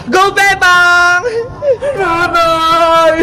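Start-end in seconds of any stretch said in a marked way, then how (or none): 2.0-3.2 sobbing cry for mother; crying call. Acted. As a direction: wail for mum through tears. Girl runs crying to mother.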